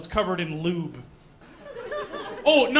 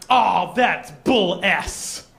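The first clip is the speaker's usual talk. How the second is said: slow, drawn-out mild disgust; a half-hearted grumble at the newspaper; imitating the upset woman reading the paper; 5 dB louder, much slower than usual. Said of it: "she went".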